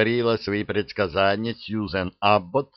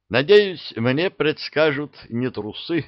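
excited; 6 semitones higher than usual. A narrator's reading. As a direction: blurt it out eagerly. Archie hopes, raised voice.

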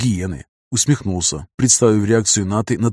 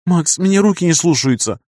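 high moaning plea; 7 semitones higher than usual. A narrator's reading. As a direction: complain through the pain, higher. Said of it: "простонала Ната".

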